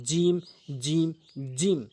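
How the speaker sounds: "জিম" pressed firmly, tongue middle to palate; long, hard-pressed "জিম", each separate. Shown as a demonstration. Teacher shows tongue against palate, firmly pronounced "জিম". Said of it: "একটু শক্ত করে".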